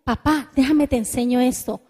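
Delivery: soft, patient offer to teach; a loving child offering help; gentle tone. Shown as a demonstration. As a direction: speak kindly to your father. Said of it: "Qué diferente el tono".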